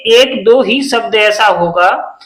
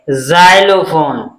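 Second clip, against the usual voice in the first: slow model word; 5 semitones lower, much slower than usual. Shown as a demonstration. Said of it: "क्या है?".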